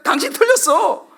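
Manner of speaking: high-pitched mock accusation; acted anger. Preacher voicing an angry person blaming another, high and indignant. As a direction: accuse them in an acted huff. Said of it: "그러니까 화가 나는 거야".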